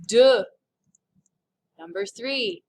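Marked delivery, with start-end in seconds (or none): 0.1-0.4 deux said clearly and much louder, falling; emphatic deux. Shown as a demonstration. Teacher modeling deux to students, loud and clear. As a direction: punch out deux for the class. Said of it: "The number two".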